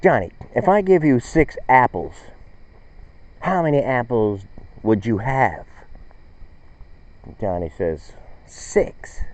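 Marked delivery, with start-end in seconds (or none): 0.0-5.7 more frustrated teacher. Retold or imitated. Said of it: "she's getting more frustrated". 8.5-9.2 unvoiced small answer; whispered kid answer.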